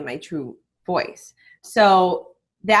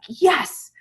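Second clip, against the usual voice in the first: triumphant yes; 8 semitones higher than usual. Retold or imitated. Triumph after shooting first video.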